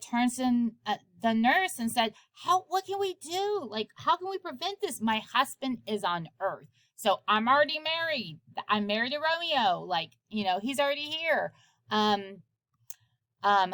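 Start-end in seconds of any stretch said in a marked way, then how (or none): 2.4-11.5 higher, quick frantic pleading; a girl grasping for a way out, lightly voiced; panicked Juliet. Juliet asking the nurse how to stop the marriage, high and hurried.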